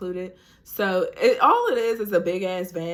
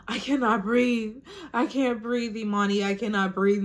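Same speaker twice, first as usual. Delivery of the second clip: higher, strained plea for air; panicked pleading; 4 semitones higher than usual. Retold or imitated. To her sister, panicked and higher. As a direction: beg that you can't breathe. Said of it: "I'm like".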